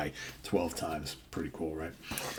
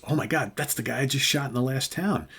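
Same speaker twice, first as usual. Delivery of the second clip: higher-pitched acted astonishment; mock shocked disbelief; 5 semitones higher than usual. Killer sees the man he shot walk in, mock shocked disbelief. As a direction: play the stunned realization, lightly dramatized.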